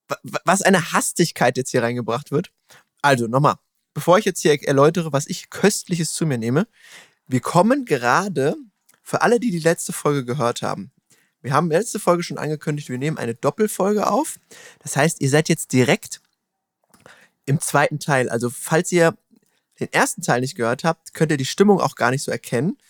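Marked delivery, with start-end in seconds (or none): 0.1-6.7 chewing while talking; talking through a mouthful; mouth full. Real, not acted. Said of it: "der schmatzend wie ein Kamel". 7.3-19.2 eating while explaining; mouth full. Real, not acted. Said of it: "Was wird denn da gemampft nebenbei?".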